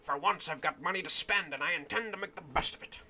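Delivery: a lightly voiced old camp-follower woman; hint of a hearty tavern woman greeting the lad; old woman's voice. Streamer voicing the old woman to the young captain, lightly acted.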